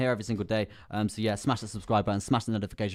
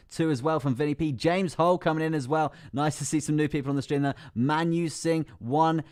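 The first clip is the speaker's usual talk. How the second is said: higher-pitched mock race commentary; horse racing announcer; 6 semitones higher than usual. Streamer announcing new votes from chat, horse racing announcer. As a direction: reel off the names like runners in a race. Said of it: "I like the horse racing announcer voice".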